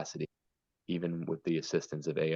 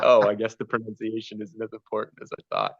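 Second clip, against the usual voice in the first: acted-out sheepish surprise, higher and louder; dawning realisation; 5 semitones higher, 7 dB louder than usual. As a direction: voice a student's startled second thought. Student's surprised realisation in a story.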